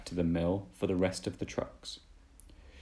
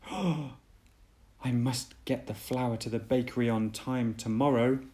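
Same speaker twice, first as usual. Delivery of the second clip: puffing; 3 semitones higher than usual. Acted. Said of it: "puffed Emily".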